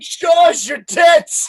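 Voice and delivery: high, drawn-out mock holler; rowdy shout. Rowdy fan at a New Orleans funeral parade, mock shouting.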